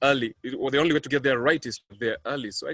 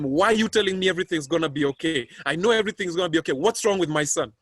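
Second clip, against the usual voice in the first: louder, pressing, fast on the middle line; desperate demand; 4 semitones higher, 4 dB louder, faster than usual. Retold or imitated. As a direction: push him for the truth about your son. Demanding answers from the pastor.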